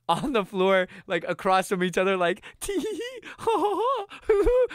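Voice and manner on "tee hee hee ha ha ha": high, silly tee-hee laugh; mock giggle. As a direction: play the giggly kids. Mocking their own giggling in basement.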